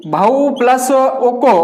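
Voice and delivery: slow, spelled-out split of the word; slow classroom dictation. Shown as a demonstration. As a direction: dictate each part slowly to the class. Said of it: "plus के बाद लिखते हैं".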